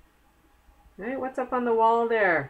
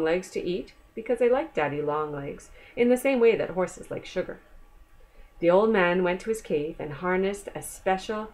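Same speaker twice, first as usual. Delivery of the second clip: put-on reading a picture book aloud to a child; gentle read-aloud storytelling; story reading; 2 semitones lower than usual. A narrator's reading. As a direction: tell it like a bedtime storybook.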